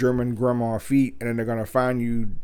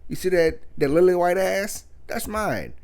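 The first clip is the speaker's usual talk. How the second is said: mock proud boyfriend; 5 semitones higher than usual. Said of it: "and be like".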